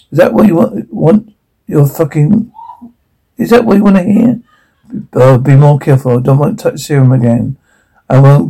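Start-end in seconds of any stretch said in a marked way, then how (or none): 0.1-4.4 exasperated. Acted. Heated confrontation, exasperated shout.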